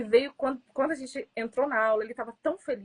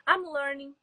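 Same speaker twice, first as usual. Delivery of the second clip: slowly and clearly spelled out; slow model phrase; 4 semitones higher, slower than usual. Shown as a demonstration. Teacher modelling the English phrase for students, slow and clear. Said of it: "essa pergunta".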